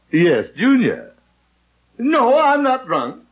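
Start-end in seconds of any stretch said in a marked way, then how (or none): 2.0-3.2 laughing. Real, not acted. Laughing on the phone.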